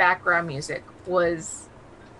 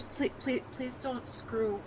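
quiet pleading; 9 dB quieter than usual. Retold or imitated. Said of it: "And it was one of those".

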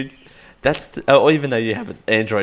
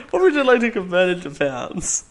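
higher and louder, crying with laughter; Siri impression; 8 semitones higher, 6 dB louder than usual. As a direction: imitate the robot voice while laughing. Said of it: "Siri imitation".

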